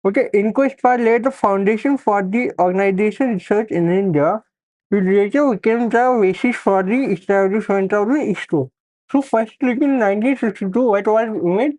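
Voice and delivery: talking around a pen held in the mouth. Real, not acted. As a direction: speak with a pen between the teeth. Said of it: "do not make fun of mine".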